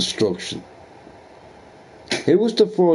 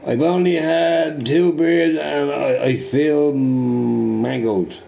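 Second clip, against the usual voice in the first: tipsy professor; 3 semitones higher, slower than usual. Retold or imitated. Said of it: "He's like".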